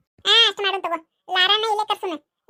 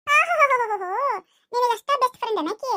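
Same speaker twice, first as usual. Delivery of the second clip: sarcastic mocking; 3 semitones higher than usual. Boy mocks rival's friendship claim.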